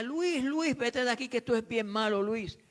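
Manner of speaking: lightly voiced old woman pleading him to leave; a hint of a trembling old woman; old woman's warning. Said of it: "Y me decía".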